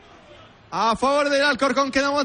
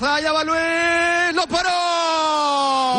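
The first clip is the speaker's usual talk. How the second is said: rising shout as the keeper saves; excited penalty call; 3 semitones higher, slower than usual. Real, not acted. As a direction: call the save at full pitch. Penalty saved, live commentary.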